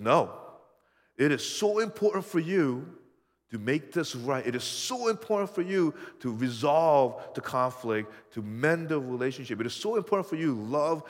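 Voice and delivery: forceful pulpit insistence; emphatic preaching. Acted. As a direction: drive home how important it is.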